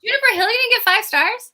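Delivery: high, loud incredulous question; a friend's real outrage over a book rating; shocked disbelief. Real, not acted.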